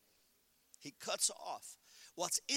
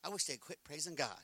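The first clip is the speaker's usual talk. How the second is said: grumbling; 4 semitones lower, 4 dB quieter than usual. Retold or imitated. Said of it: "you get mad, like".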